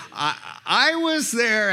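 loud, slow and commanding; booming lion voice. Acted. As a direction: proclaim it like a king. Aslan answering the White Witch.

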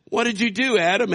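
preacher voicing God's loud demand to Adam; God's stern call. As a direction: call him out to account. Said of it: "God said".

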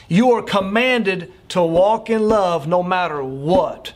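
slow, deliberate weight on COMMANDED; emphatic repetition. Real, not acted. Preacher repeats the command so it sinks in, slow and emphatic. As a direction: spell out "You are commanded" slowly and firmly.

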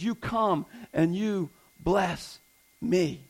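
slow, weighed quote; quoting God's word. Retold or imitated. Preacher quoting God's word to the church, slow and deliberate. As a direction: lay out "You come and you bless me" slowly. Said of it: "His word says".

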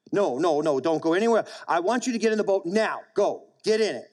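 pressing order, pitch lifting toward the end; insist, allowing no choice; insistent command. Acted. Jesus prevailing upon his disciples to board, insistent. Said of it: "He prevailed upon them".

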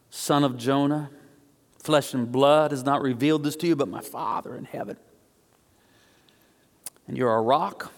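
low, measured pronouncement of a blessing; solemn blessing. Retold or imitated. Jesus blessing Simon, solemn and low.

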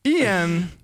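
letter by letter spelling bee. Pretend. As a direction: spell each letter out deliberately. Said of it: "Can you spell that for us?".

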